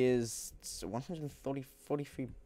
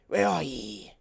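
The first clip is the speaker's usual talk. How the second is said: louder put-on "ye" voice; playful old-timey call; 3 semitones higher, 6 dB louder, slower than usual. Gamer calling to a crafting bench, playful old-timey. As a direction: call out "ye" in mock archaic style.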